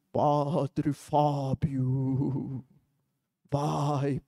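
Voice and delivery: deep, very slow booming call; like a voice echoing from a cave; cavernous voice. Retold or imitated. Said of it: "uma voz cavernosa, vindo lá do fundo, com eco no fundo".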